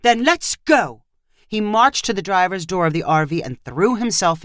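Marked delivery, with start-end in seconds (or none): 0.0-1.0 slow, higher-pitched outburst; a restrained shout, each word drawn out; mild shout. A narrator's reading. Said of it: "Nigel shouted".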